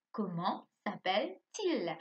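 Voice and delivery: Comment s'appelle-t-il spoken slowly with a falling end; slow model question. Shown as a demonstration. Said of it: "Ça, c'est une question". (question lente, fin descendante)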